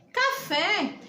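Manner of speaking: café with the weight on the final fé; stress on last syllable. Shown as a demonstration. Teacher repeating the example word, last-syllable stress on café. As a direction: lean on the fé of café. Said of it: "é a sílaba mais forte".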